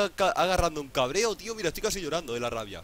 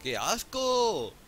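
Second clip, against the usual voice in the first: drawn-out disgust; 4 semitones higher, much slower than usual. Real, not acted. Disgusted at a bad skin.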